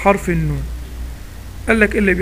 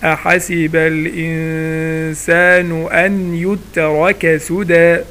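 ترتيل؛ تلاوة بطيئة مرتلة للآية؛ رتّلها ببطء كقارئ القرآن؛ تلاوة مجودة بطيئة; much slower than usual. Shown as a demonstration. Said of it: "فالمرة دي هقول إيه؟".

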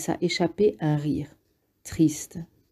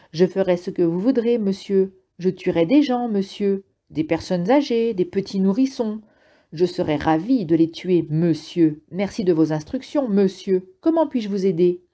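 mocking, cruel parroting of the voice; cruel sarcastic mimicry; 3 semitones higher than usual. Jonas mocking the speaker voice, cruel and sarcastic. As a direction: sneer it back as a cruel copy. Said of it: "Il ne pouvait plus s'arrêter".

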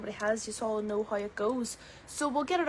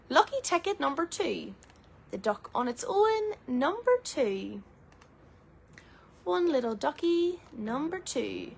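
sing-song bingo call, stretched out; bingo caller; 3 semitones higher than usual. Acted. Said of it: "I'm on the rhyming scale today".

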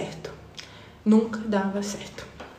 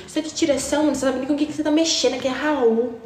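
put-on tough girl threat; 4 semitones higher, faster than usual. Girl's threat quoted again.

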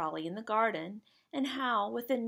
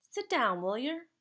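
lightly voiced Jack; 3 semitones higher than usual. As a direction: lightly play a friendly lad in a dialect.

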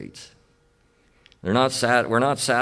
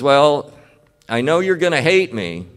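pleading confession; 6 semitones higher, 6 dB louder than usual. Retold or imitated. Boy confesses to grandma.

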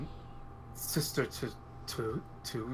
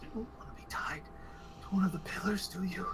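coaxing female voice; 4 semitones higher than usual. Acted. NPC coaxes softly.

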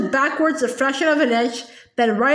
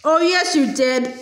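mild roar; slower than usual. Acted. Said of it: "the Trunchbull roared back".

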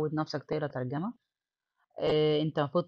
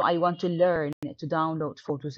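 slow reading; 4 dB louder, much slower than usual. Shown as a demonstration. Teacher reading the textbook dialogue to students, slow and clear. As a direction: read "do you have a computer to do your homework" slowly and clearly. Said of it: "reads textbook dialogue aloud".

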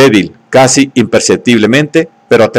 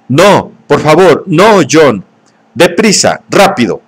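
terrified pleading; 5 semitones higher, slower than usual. Acted. She shields her face, terrified.

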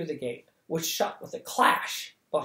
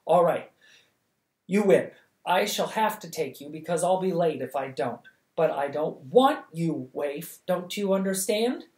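panting; 2 semitones higher, 5 dB louder than usual. Acted. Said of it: "panting out".

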